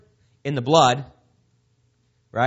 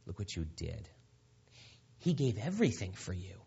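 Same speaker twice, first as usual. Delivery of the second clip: a soft, sneering accuser's voice; softer, as the sly accuser jabbing at you; taunting accuser; 4 dB quieter than usual. Retold or imitated. Preacher voicing Satan accusing a believer, soft and sneering. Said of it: "the accuser is right there".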